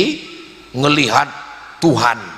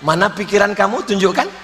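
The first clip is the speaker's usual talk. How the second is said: acted easygoing counter-challenge; unruffled. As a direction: turn the demand round coolly. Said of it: "dia slow ketika ditanya". (membalas dengan santai)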